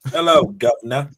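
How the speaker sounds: a light mock Cockney greeting; Cockney accent. Cohost greeting the host in a light mock Cockney accent. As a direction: say it as a cheery London Cockney, half-hearted. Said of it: "My best Cockney accent I can muster".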